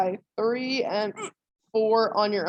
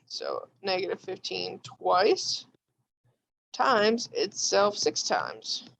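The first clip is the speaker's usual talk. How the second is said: holding back hiccups; talking through hiccups; suppressing hiccups; 2 semitones lower, slower than usual. Real, not acted. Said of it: "Sorry, I have the hiccups".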